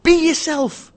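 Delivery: BE YOURSELF high and loud, run together; emphatic exclamation. Real, not acted. Urging business people to drop the act, loud exclamation. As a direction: belt out "Be yourself" as one burst. Advice exclaimed, then repeated more deliberately.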